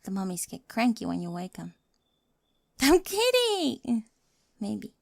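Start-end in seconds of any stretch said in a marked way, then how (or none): 1.6-4.9 giggling reassurance; laughing. Acted. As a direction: burst out laughing on it. Laughs after mummy joke.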